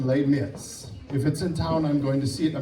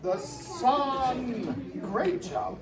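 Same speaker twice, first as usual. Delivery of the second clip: quiet praise; 7 semitones higher, 11 dB quieter, slower than usual. Real, not acted. Quietly praising kids' drawings aside.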